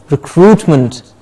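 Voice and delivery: slow "recruitment" ending in a weak munt; "recruitment" as re-CRUIT-munt; reduced ending. Shown as a demonstration. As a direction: schwa in the last syllable of "recruitment". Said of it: "replacing the small er sound".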